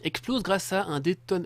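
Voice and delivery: slow flat robot voice. Pretend. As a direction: read it like a machine. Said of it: "voix de robot".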